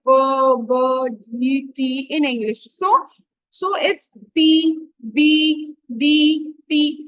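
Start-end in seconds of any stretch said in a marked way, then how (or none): 0.0-2.1 b, b, d, t as separate drawn-out sounds; isolated phonemes. Shown as a demonstration. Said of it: "For example, sounds like". 4.3-7.0 each letter sound given its own beat; isolated phonemes. Shown as a demonstration. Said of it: "all these sounds are phonemes".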